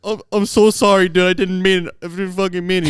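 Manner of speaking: high, loud frantic begging; retold terrified teen; panicked apology. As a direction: plead for your life. Scared teen begs forgiveness.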